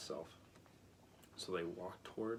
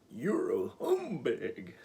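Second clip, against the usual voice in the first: accusing; 4 semitones higher, 9 dB louder, much slower than usual. A narrator's reading. Scarecrow accusing.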